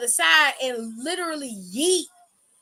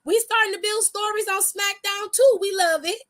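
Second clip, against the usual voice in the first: 1 high excited cheer; 5 semitones higher than usual. Retold or imitated. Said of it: "I was like".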